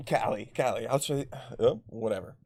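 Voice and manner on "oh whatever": ordinary talk, nothing marked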